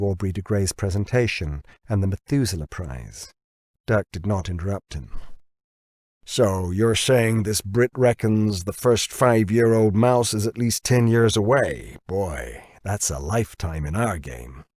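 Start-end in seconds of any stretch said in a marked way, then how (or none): 6.2-14.6 lightly voiced brash American boss, drawn out; a hint of a gruff American executive, sceptical; Dirk's voice. Narrator voices Dirk, American boss.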